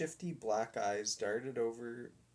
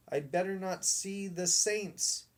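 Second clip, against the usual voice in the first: sheepish dog; 8 semitones higher than usual. A narrator's reading. Dog fearing the saints.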